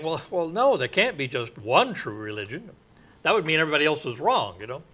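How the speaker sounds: lightly imitated casual objection, pitch bouncing; Oprah. Preacher retelling a talk show host's objection, light imitation. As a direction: toss it off as a quick, conversational protest with rising ends. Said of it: "And she was saying".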